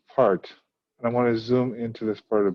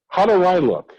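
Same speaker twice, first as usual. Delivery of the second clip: lightly voiced Blanche; 4 semitones higher, 3 dB louder than usual. Teacher voices vain Blanche.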